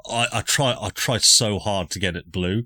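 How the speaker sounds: high, loud pleading; pleading protest. Real, not acted. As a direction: beg them to forgive you.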